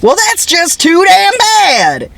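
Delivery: put-on high, slow cranky old man voice; grumpy grandpa. Quoting the grandpa's retort to his granddaughter, slow cranky old man voice. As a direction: snap back like a fed-up grandpa. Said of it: "the grandpa goes".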